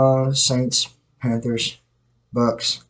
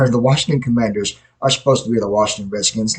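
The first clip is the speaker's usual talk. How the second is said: a laugh before the line, then going on with amusement. Real, not acted. Podcaster laughing at the Washington team name. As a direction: break into a real laugh, then carry on.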